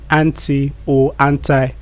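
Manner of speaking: "anti or anti" as AN-tee, then AN-tie; first "anti" ends in "ee", second "anti" in "eye"; both American pronunciations. Shown as a demonstration. Teacher advising fans of American English, AN-tee then AN-tie. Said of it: "As an American person".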